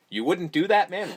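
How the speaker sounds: your own voice, repeated in disbelief; deadpan skeptical repeat; incredulous. Shown as a demonstration. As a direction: question how anyone could say that. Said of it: "My question is".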